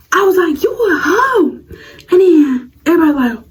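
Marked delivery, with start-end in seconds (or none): 0.6-1.6 high giggly taunt; laughing insult. Retold or imitated. Calling out the rival before classmates, laughing. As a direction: fling the insult while laughing.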